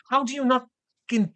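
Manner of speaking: high-pitched, exasperated disbelief; incredulous. Real, not acted. Podcast host picking apart the Megan reveal, incredulous. Incredulous rant about pointless plot twist.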